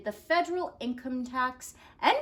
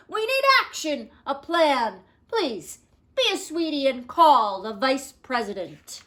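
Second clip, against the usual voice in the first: impatient Taft; 3 semitones higher, 6 dB louder than usual. Acted. Taft giving orders.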